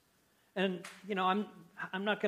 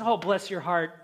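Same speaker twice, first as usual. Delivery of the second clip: sugary fake sympathy. Shown as a demonstration. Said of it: "that's really what that phrase means".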